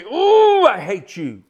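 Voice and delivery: hammed-up spite from the unrepentant; mock hateful sneer. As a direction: imitate a bitter sinner. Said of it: "get so angry ... and say".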